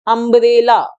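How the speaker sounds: अम्ब्रेला sounded carefully, opening on a short uh; clear model word. Shown as a demonstration. Teacher shows students the uh sound, careful. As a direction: model अम्ब्रेला with a crisp uh at the start. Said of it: "उसकी sound होती है अ".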